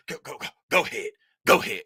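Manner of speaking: low, soft mimicked directions; traffic-directing official. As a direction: imitate an official waving cars on, quietly.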